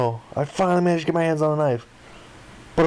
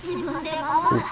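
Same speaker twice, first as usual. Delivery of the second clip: high ooh; 13 semitones higher, 5 dB quieter than usual. Real, not acted. Reacts to a dialogue choice.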